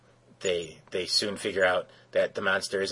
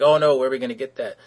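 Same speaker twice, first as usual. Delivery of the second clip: worried; 5 semitones higher, 8 dB louder, faster than usual. Retold or imitated. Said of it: "John's like".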